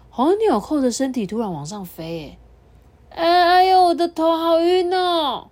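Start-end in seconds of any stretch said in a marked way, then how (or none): 3.1-5.5 startled dizzy button; dizzy surprise. Acted. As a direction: reel as if the head spins.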